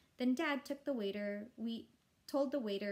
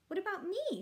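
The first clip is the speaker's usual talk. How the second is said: whiny little brother; 10 semitones higher, 4 dB louder than usual. A narrator's reading. Fudge wants a friend too.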